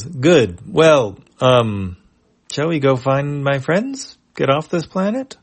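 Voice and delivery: high, loud and slow like a cheerful dope; dopey eager voice. Acted. Chipu turns to the humans, dopey and high. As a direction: sound pleased and a little dim.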